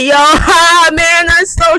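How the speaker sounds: imitating loud chatter with a put-on laugh; mock loud laughing. Mocking noisy bus riders who should whisper, fake laughing chatter. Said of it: "But no, y'all be like".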